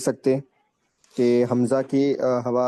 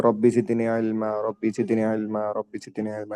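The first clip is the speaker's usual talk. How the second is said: demo recitation; 3 semitones lower, 3 dB quieter than usual. Shown as a demonstration. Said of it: "تو یہ چھوٹی یاد کر لو".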